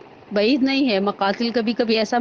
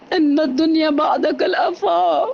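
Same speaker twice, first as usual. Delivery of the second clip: lamenting cry; 3 semitones higher, slower than usual. Acted. Father's lament on hearing son.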